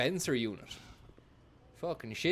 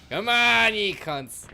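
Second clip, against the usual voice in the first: high, loud battle yell; furious shout; 9 semitones higher, 11 dB louder, slower than usual. Real, not acted. Gamer roaring at attacking enemies, furious shout. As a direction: scream it at the enemies.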